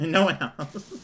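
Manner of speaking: joking words broken by real laughter; laughing. Real, not acted. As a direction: laugh through the teasing line. Jokes about welcoming only one raider.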